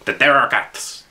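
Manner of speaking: put-on cheesy French accent. Commissar repeating himself to puzzled players, cheesy French accent. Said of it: "I put on a very cheesy French accent".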